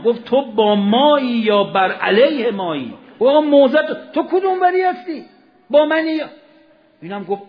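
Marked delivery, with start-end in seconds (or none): 0.2-6.3 forceful questioning. Acted. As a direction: demand an answer, voice raised high. Hussain questions Hurr forcefully. (پرسش پرخاشگرانه و بلند)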